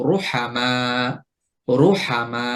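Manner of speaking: রোহামা with a thick, rounded র; heavy ra with pesh. Shown as a demonstration. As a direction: repeat রোহামা slowly, heavy র. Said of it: "র এর উপরে যখন পেশ হবে, তখনও আমরা মোটা করে উচ্চারণ করব".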